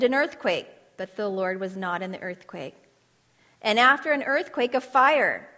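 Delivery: dramatic Bible reading, rising for wind and fire, hushed at the end; scripture reading. Acted. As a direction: read the passage like a preacher building then falling to a hush. Reading the Elijah passage aloud.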